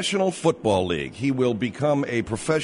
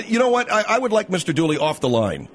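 higher-pitched, fed-up radio host; firm exasperation; 5 semitones higher than usual. Acted. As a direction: put your foot down with the interrupter. Host orders interrupting husband off line.

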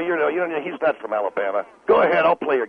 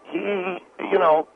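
talk-radio rant demo; slower than usual. Shown as a demonstration. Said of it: "You could do that, Phil".

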